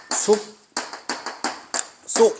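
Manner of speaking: 숲 and 속 sounded apart with a long pause; separated syllables. Shown as a demonstration. Teacher showing students how 숲속 is pronounced, syllables separated. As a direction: break it into 숲, then 속. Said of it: "이렇게 발음해".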